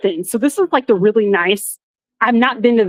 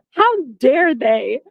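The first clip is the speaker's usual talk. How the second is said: slow, drawn-out mock offence; slow outrage; 3 semitones higher, much slower than usual. Registration fails, slow mock-offended how dare they. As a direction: stretch each word in mock offence. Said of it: "outraged retelling".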